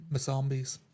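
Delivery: ordinary talk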